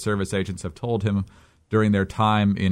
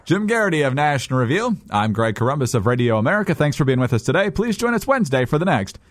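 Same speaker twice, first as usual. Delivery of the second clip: polished announcer outro, lifting at the end; radio sign-off; 5 semitones higher than usual. Real, not acted. Host thanking listeners at the show's end, practised announcer delivery.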